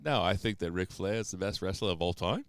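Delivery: mock Australian, rising at the end; Australian accent. Shown as a demonstration. Host demonstrating Australian on a wrestling opinion, rising accent. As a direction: state it in Australian as if asking. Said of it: "end every sentence like it's a question".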